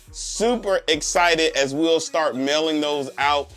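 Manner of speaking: big loud upbeat sign-off; booming motivational speech. Real, not acted. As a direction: pump up the closing announcement.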